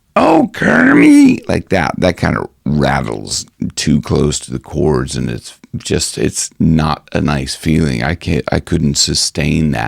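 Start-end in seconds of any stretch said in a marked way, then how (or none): 0.1-1.4 very high, rough, squeezed put-on voice. Explaining a childhood attempt to imitate Miss Piggy; Miss Piggy voice. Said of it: "try to imitate Miss Piggy".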